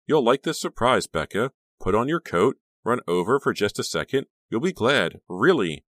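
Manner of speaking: high, loud, excited persuasion; gushing friend who won't take no; insistent. A narrator's reading. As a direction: keep pushing them eagerly. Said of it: "Honey insisted".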